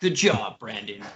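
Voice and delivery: low video game announcer voice. Commenting on a knockdown during gameplay, doing an in-game announcer impression. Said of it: "That's my best in-game announcer impression".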